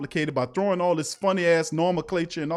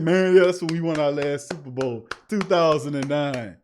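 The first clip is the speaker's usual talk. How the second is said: mock nostalgic fan; 4 semitones lower than usual. Host imitating fans recalling the Super Bowl, mock nostalgia. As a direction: lightly mimic someone savouring an old win.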